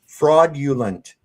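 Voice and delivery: "Fraudulent" drawn out as frawd-yoo-lent; pronounced without G. Shown as a demonstration. Speaker proving there's no G in it, slow demonstration. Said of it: "There's no G in it".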